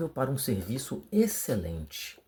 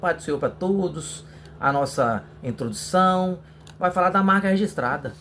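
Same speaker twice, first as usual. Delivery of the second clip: sample sermon opening; 3 semitones higher than usual. Shown as a demonstration. Preacher showing students how to open a youth lesson, lightly preached. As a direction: open the talk like a youth leader addressing the brothers. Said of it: "Então você pode iniciar assim".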